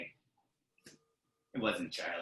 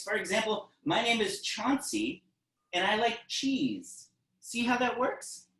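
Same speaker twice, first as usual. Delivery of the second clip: tiny mouse; 9 semitones higher than usual. Acted. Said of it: "The mouse says".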